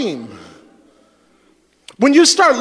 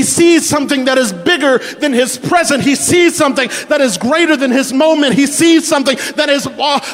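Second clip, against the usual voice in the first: rising preaching; 2 semitones higher than usual. Acted. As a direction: preach it out, climbing in force. Preaching builds to full force.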